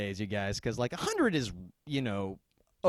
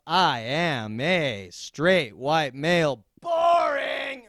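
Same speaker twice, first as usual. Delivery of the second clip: mock announcement; 4 dB louder, much slower than usual.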